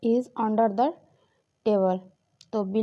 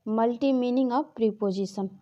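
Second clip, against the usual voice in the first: slow heading; much slower than usual. Shown as a demonstration. Teacher announcing the next topic to students, slow. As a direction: say "multi meaning of preposition" slowly, word by word.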